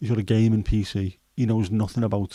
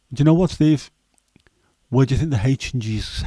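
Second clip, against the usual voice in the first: excited revelation; 3 semitones higher, 4 dB louder than usual. Real, not acted. Excited sudden revelation to Steve.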